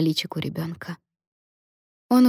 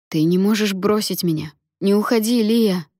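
lightly acted pleading, rising at the end; urgent but contained appeal; desperate plea; 3 semitones higher than usual. Mariana begs dying Lia not to leave, pleading.

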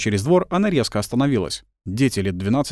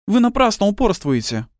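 sighing; 12 semitones higher, 3 dB louder than usual. A narrator's reading. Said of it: "вздохнула она".

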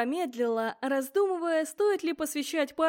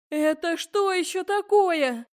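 high, loud, slowed-down alarmed question; shocked; 5 semitones higher, 5 dB louder, slower than usual. Acted. Heroine confronted by skeletons, slow shocked outburst. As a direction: demand an answer in alarm.

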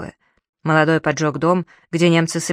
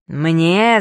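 mild mock roar; 4 dB louder than usual. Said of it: "заревел Плантье".

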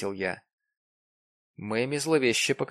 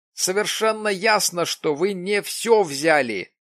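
insistent; 8 semitones higher, 6 dB louder than usual. A narrator's reading. Jim continues exclaiming.

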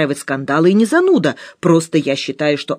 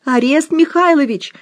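howled like a train siren; siren wail; 9 semitones higher than usual. A narrator's reading. Musya howling for her husband like a siren. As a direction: wail his name like a siren. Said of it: "взвыла паровозной сиреной Муся".

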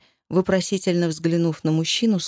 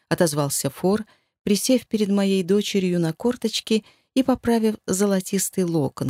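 ordinary delivery, nothing marked

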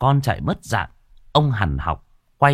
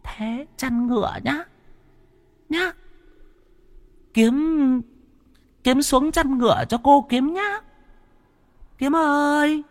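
eerie possessed woman; slower than usual. Acted. Possessed mother coaxes her son in a high eerie voice. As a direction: lure the boy sweetly like a spirit. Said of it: "trợn mắt nhìn thằng Kiếm".

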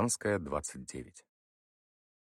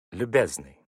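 pointedly condescending; 6 dB louder, slower than usual. A narrator's reading. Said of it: "подчёркнуто сказал Сташевский".

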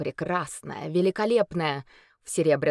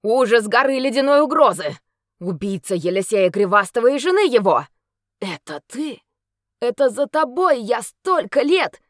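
furious accusation; 6 semitones higher, 9 dB louder than usual. Acted. Knight confronts the monster.

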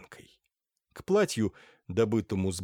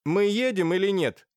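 высоко и громко, с нетерпением; поторопи всех с досадой; недовольно; 9 semitones higher, 5 dB louder than usual. Acted. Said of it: "спросила недовольно Лаевская". (Лаевская недовольно торопит, громко)

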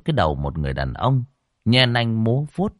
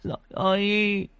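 sniffle through her fear; tearful grandmother; 11 semitones higher than usual. Acted. Grandmother tearfully telling her son of the nightmare, high and sniffling. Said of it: "sụt sùi nhìn anh Lập".

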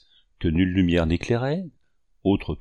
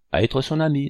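quick cut-in, raised pitch; lively interruption; 6 semitones higher than usual. A narrator's reading. Young woman finishing the hunter's sentence, briskly interrupting. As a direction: break in briskly on a higher note. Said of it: "interrompit-elle vivement".

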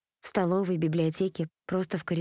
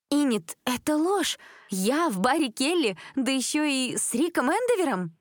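furious; 8 semitones higher than usual. A narrator's reading. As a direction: blast it out in indignant rage. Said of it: "Лиз сменила слёзы на ярость". (в ярости)

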